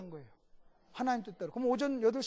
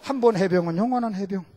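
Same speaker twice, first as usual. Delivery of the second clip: barked out loud like a drill slogan; marine motto; 3 semitones lower, 9 dB louder than usual. Retold or imitated. Pastor quotes the marine motto in a loud slogan voice. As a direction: call it out like a proud marine. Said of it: "해병대에 있는 게 그대로 온 거예요".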